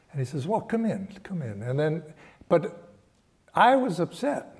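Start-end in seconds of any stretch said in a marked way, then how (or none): 0.4-1.6 softly retold calm welcome; peaceful. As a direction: usher them in gently, unruffled. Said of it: "He was peaceful".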